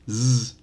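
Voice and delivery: "z" buzzed with the voice on; voiced z demo. Shown as a demonstration. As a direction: hold a buzzing voiced "z". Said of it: "the final S will sound voiced".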